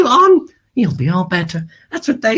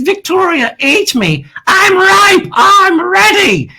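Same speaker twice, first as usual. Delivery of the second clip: voice of the bananas; 6 semitones higher, slower than usual. Pretend. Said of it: "what they're saying is".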